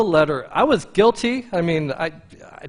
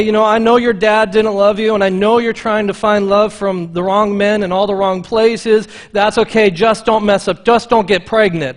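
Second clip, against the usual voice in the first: mildly louder, hammed-up easygoing Jesus; mock lenient Jesus; 4 semitones higher, 6 dB louder than usual. Preacher mocking a lenient Jesus, lightly hammed-up. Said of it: "That's not what Jesus says".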